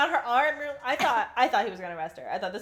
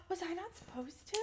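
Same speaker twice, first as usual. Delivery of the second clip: mock innocent Rue; 6 semitones higher, 18 dB quieter than usual. S1 voicing Rue's innocence.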